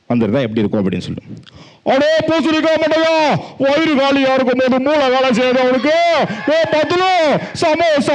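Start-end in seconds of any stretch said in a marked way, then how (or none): 1.9-8.2 very high squeaky cartoon voice; cartoon kid voice, pitched way up; cartoon character voice. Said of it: "மோட்டு பத்து வந்து".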